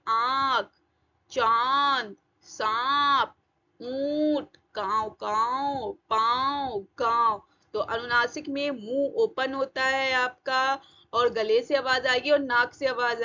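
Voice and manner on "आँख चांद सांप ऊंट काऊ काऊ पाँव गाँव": आँख, चांद, सांप with vowels held through nose and throat; nasalised vowels. Shown as a demonstration. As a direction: open the mouth and let the vowel of पाँव ring in the nose. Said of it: "दोनों से आवाज आ रही है।".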